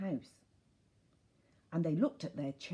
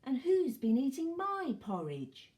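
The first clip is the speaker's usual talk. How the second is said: higher, lighter mother bear voice; quieter Mommy Bear; 8 semitones higher, 4 dB louder than usual. A narrator's reading. Mommy Bear looks into her bowl, higher gentler voice. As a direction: lift the pitch, no booming. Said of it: "said in a quieter voice".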